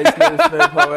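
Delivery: high shouted Vine catchphrase; yelled ad lib. Retold or imitated. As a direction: yell the ad lib in a put-on voice. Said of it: "Everybody say".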